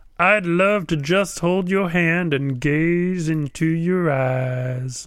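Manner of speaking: slow voice, lingering and stretching out "eyes". Acting out a comic strip line, asking Liz for a date: John's voice. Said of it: "mine was, was John's voice".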